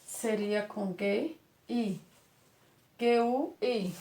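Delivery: slow letter-by-letter spelling, G U I; spelling it out as heard. Shown as a demonstration. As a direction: spell "Seria com G, I. G U I" slowly, as Magda sounds. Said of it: "como seria a escrita de Magda quando estivesse lendo".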